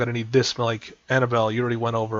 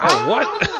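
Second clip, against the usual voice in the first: very high-pitched yelp of alarm, half laughing; squeaky mock shock; startled bystander; 4 dB louder than usual. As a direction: play a comically startled guard. Guards diving out of the way.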